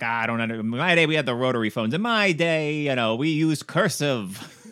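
a hint of a crotchety holdout; grumbling old-timer. Host imitating holdouts reminiscing about rotary phones, mildly crotchety. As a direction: lightly play someone griping about the old days. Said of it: "the people today that are like".

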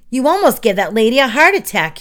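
indignant telling-off; scolding cry. A narrator's reading. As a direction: cry out, scandalized and cross. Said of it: "he cried".

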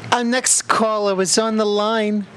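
smooth on-air host voice; radio host. Acted. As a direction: introduce the caller like a radio host. Radio host introducing the next caller.

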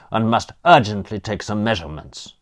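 put-on brisk Austrian-accented instruction; urgent, Germanic-sounding Austrian accent. Philosopher announcing urgent measurements, Austrian accent. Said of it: "the German accent".

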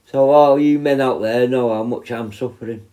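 hoarse, stuffed-up man flu voice; talking through a heavy cold. Real, not acted. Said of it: "Excuse the voice".

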